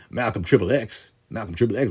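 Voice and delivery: lightly put-on character voice; Malcolm Triple X. Listing his limerick characters, light put-on voice. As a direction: slip lightly into another limerick teller's voice. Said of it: "different voices that I do 'em".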